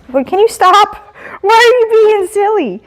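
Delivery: high, sing-song telling off; playful scolding. Real, not acted. Trainer telling the silly dog to stop, in a high playful voice.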